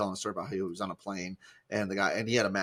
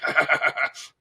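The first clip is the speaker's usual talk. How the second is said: louder, put-on prankster laugh; mock snicker; 4 semitones higher, 6 dB louder than usual. Jesus laughing at the mourners.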